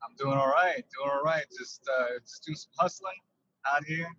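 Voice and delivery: talking from inside a truck, wind tunnel sound; windy in-car wind tunnel sound. Real, not acted. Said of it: "sounds like I'm in a wind tunnel".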